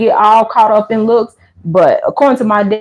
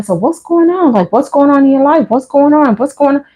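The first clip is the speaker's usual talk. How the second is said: pushy sister; 4 semitones higher than usual. Retold or imitated. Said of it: "she just kept saying".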